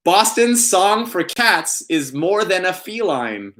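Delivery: sing-song it toward feline; pun reading voice. Pretend. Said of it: "that's the way I had to deliver that".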